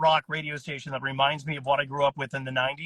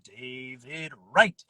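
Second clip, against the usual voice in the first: subdued announcer voice; 3 semitones lower, much slower than usual. Retold or imitated. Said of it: "he would be like".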